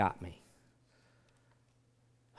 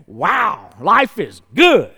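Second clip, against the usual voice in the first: higher, louder, slow and lazy cow voice; contented fat cow; 7 semitones higher, 17 dB louder, much slower than usual. Retold or imitated. Preacher voicing the oblivious fat cow in the field, loud and slow. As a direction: sigh it out like a cow without a care. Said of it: "He's like".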